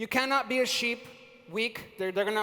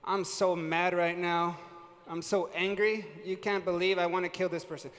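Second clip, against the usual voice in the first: emotionless anger; 4 semitones lower, 4 dB quieter than usual. Retold or imitated. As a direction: say you are furious without showing it. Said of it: "you can't tell".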